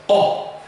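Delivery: "O" abrupt and punched; sharp punched vowel. Shown as a demonstration. Teacher demonstrating the aggressive vowel, a punched "O". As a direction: spit it out like a jab. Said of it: "very aggressive".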